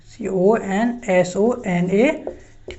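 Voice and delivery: letters spelt out one by one, slowly; slow spelling. Shown as a demonstration. Teacher spelling the word for students, slow and deliberate. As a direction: spell it out for the class to copy. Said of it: "spelling out letter by letter".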